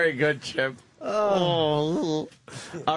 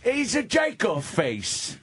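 Dice impression. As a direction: berate him like Dice. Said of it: "Dice would not like Chip".

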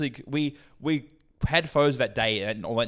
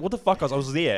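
retold angry protest; 2 semitones higher than usual. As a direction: imitate a mate getting worked up. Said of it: "And he's getting angry".

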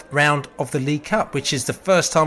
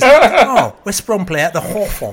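mimicking daughter; 6 semitones higher, 7 dB louder, slower than usual. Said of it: "She goes".

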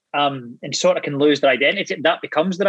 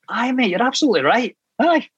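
much higher meek agreement; squeaky agreement; 9 semitones higher than usual. Retold or imitated. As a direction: cave in with a high squeak. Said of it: "I went".

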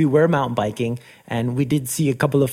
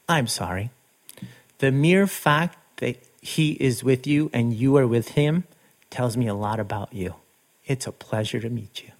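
sincere apology; 2 semitones lower, 3 dB quieter than usual. Retold or imitated. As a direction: imitate a heartfelt welcome, sinking softly at the end. Retold apology and kind welcome.

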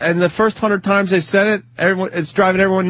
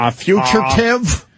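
imitating Voss; 3 semitones higher, slower than usual. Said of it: "he would".

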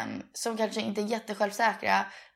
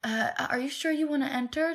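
nervous date; 6 semitones higher than usual. Retold or imitated. Nervous date voiced in retelling.

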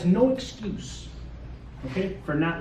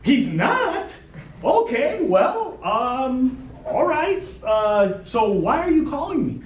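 higher, sing-song feigned surprise; mock surprise; 4 semitones higher, much slower than usual. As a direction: play it innocently puzzled. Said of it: "I go".

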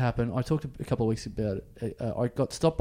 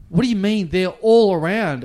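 incredulous policeman; 6 semitones higher, 8 dB louder than usual. Retold or imitated. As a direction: scoff at the lame excuse. Police mocking his excuse.

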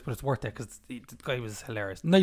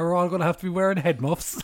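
laughing; 2 semitones higher, 5 dB louder than usual. Retold or imitated. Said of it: "he said".

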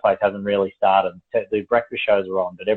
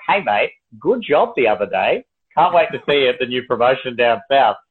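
slightly raised, hammed-up matey praise; mock congratulations; 3 semitones higher than usual. Imagined boss congratulating an employee, mock cheery. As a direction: pretend to be a pleased boss handing out praise.

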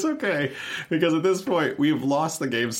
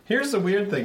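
British accent; 10 semitones higher than usual. Real, not acted. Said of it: "Was that British for a second?".

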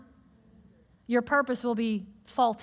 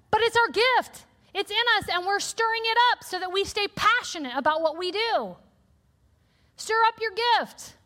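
rising preach; 6 semitones higher than usual. Real, not acted. Preacher building up.

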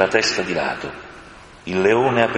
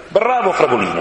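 high, louder, delighted cheer; exclaiming; 8 semitones higher, 3 dB louder than usual. A narrator's reading. Polly cheers the horse Fragolino, delighted. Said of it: "esclamò Polly".

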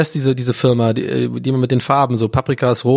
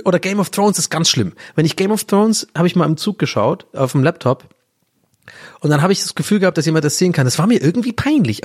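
normal talking voice

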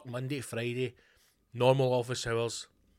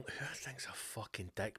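whispered aside; 3 semitones lower, 13 dB quieter than usual. Real, not acted. Aside insult about Pete Tong.

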